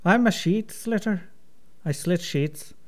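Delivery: put-on careful Irish-accented tongue twister; lightly put-on Irish recitation. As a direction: work through the twister in stage Irish. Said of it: "making fun of my accent".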